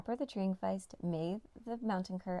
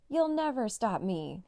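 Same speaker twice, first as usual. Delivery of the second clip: slow, louder taunting yell; a touch of a yell over the shoulder; mild yell; 3 semitones higher, 5 dB louder, slower than usual. Acted. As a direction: yell it back while running. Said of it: "he yelled behind him".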